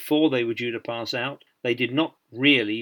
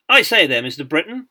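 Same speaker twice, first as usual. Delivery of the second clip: lightly hammed new officer's accent, raised pitch; self-important new British officer's accent; 4 semitones higher, 8 dB louder than usual. A narrator's reading. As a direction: put on a newly commissioned officer's accent. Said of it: "in his new officer's accent".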